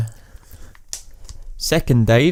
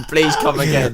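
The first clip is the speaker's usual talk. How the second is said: mock Indian accent as if reading; 2 semitones higher than usual. Shown as a demonstration. Co-host mocks the reader, stilted Indian accent. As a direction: laughingly mimic someone reading in Indian accent. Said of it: "Like you're reading".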